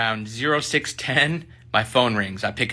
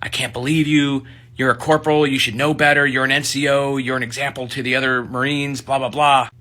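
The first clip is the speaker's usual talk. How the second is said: a hint of a furious sergeant; mock yelling; 4 semitones higher than usual. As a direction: scold him like a staff sergeant, understated. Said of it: "yelling and screaming".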